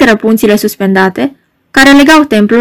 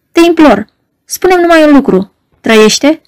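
higher, urgent plea; higher desperate begging; imploring; 5 semitones higher than usual. Acted. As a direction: beg him for one answer. Margareta begs for news of him.

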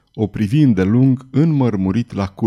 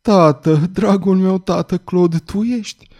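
put-on high-pitched, happy girl's voice; joyful, high daughter's question; smiling daughter; 8 semitones higher, slower than usual. A narrator's reading. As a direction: ask it with a smile, pitched up. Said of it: "Violeta zâmbea și repeta mereu".

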